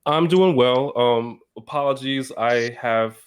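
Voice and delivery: numb half face, slightly slurred; talking with a numb mouth; numb from the dentist. Real, not acted. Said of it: "half of my, um, face is numb".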